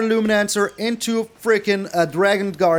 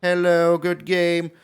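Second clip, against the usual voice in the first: mocking imitation; slower than usual. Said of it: "one of these hello good game people".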